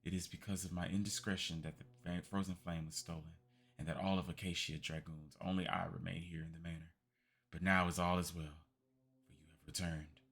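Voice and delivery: put-on a faint old voice stirring; weary old man. Old man muttering to his former allies, weary.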